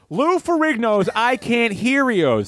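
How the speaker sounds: high, drawn-out brand call; slogan call-out. Acted. Wrapping up his pick, drawn-out slogan call. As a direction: sing out the slogan to wrap the pitch.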